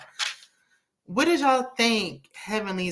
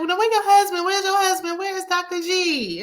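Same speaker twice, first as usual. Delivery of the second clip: much higher, sugary mock-innocent question; imitating Quad; 10 semitones higher than usual. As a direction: sing it up high like a fake-sweet ex-wife. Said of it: "she was like".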